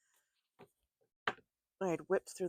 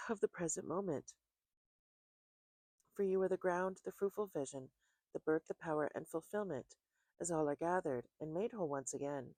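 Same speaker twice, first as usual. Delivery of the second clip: reverent, measured prayer voice; 2 semitones higher, 3 dB louder than usual. Acted. Opening prayer before tarot reading.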